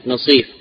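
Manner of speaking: "نصيف" with long i after sad; long-i variant, like raghif. Shown as a demonstration. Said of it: "كرغيف".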